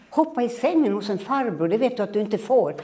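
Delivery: put-on mother shocked at the boy's wish. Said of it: "höll jag på dem med den där ungen". (förskräckt mamma)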